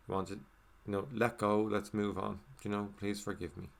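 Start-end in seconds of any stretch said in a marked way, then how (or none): 3.0-3.7 inner quiet plea. Shown as a demonstration. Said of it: "you're not saying it face to face".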